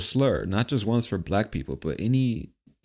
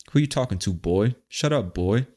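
mock confrontational put-down; disrespectful challenge. Shown as a demonstration. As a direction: demonstrate talking down to someone. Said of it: "if you say it like that".

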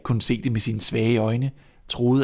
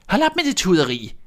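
higher, louder snapping witch; harsh old witch voice; scolding witch; 9 semitones higher, 4 dB louder than usual. Acted. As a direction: cut off the crying like a cruel witch. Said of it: "sagde den gamle".

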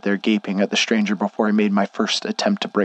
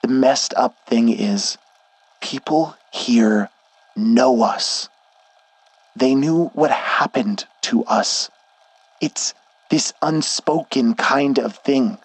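a hint of a stern worried friend; firm but caring, slightly higher; lightly voiced Schnee; 4 semitones higher than usual. Schnee explains the town.

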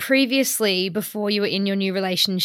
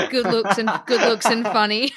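laughing; 5 dB louder than usual. Real, not acted. Laughing while repeating.

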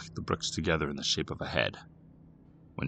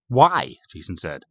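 raised, loud challenge; demanding; 7 semitones higher, 8 dB louder than usual. A narrator's reading. Boy confronting sister about the compass, demanding. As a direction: demand an explanation.

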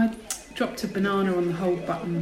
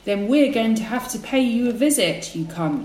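gangster threat; 3 semitones higher than usual. Acted. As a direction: lean on him like a debt collector. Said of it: "the gangster one".

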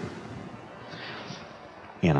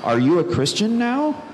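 much higher, laughing through an awkward question; laughing friend; 6 semitones higher than usual. Retold or imitated. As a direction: tease out the elephant in the room, giggling. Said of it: "Drew's like".

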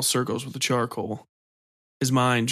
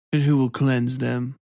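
cooed; 3 dB louder than usual. Acted. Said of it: "Mock cooed".

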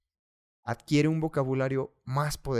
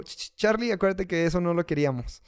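higher, fast chiding inner voice; tut-tut yourself gently; tsk tsk disapproving; 3 semitones higher, faster than usual. Retold or imitated. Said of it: "mi subconsciente me dijo".

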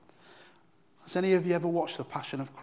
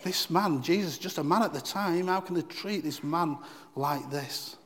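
indignant thought; 3 semitones higher than usual. Retold or imitated. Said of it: "and thought".

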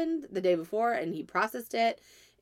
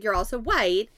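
a bit louder, firmer "You're also white."; firmer retelling; 3 semitones higher, 5 dB louder than usual. Retold or imitated. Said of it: "But I was like".

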